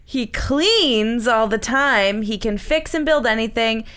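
breathless while reading aloud; out of breath. Real, not acted. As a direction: read it short of breath. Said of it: "I'm out of breath reading this".

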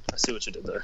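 holding back a laugh, very soft; barely hiding laughter; stifled giggles. Real, not acted. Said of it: "trying not to laugh".

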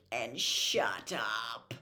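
low whispered yawn. A narrator's reading. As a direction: breathe it out sleepily.

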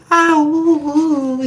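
high lilting sing-song warble; sing-song dub voice. Retold or imitated. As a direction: warble it like a bad opera singer. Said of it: "She's, like, lilting, like, sing-songy".

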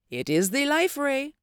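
high, awed hush without whispering; reverently. A narrator's reading. Doctor Mudson shows Northwood the life ray, reverent. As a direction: lift it upward in reverence. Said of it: "said Doctor Mudson reverently".

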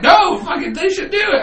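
high-pitched shout. Retold or imitated. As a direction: yell it like you mean it. Retold heated argument.

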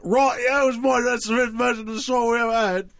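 a hint of a rock singer, rattled off fast; rock singer impression. Host mimics a gravel-voiced rock singer for the podcast crew, lightly voiced. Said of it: "It's also my rock singer impression".

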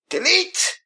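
sudden high yelled catchphrase. Acted. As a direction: yell it like a wrestler. Wrestling catchphrase yell.

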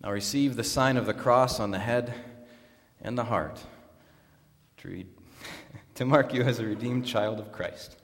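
measured, solemn liturgical delivery; formal baptism liturgy. Acted. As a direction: pronounce the rite formally to the congregation.

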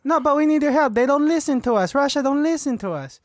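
high-pitched secretary arguing her case; put-on high voice, insistent; pleading secretary Sasha. Secretary argues with mediator, high insistent voice.

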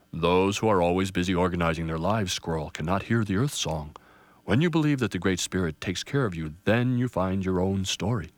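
put-on an old pine gently correcting; booming grandfather tree. Grandfather answers Squirrel.

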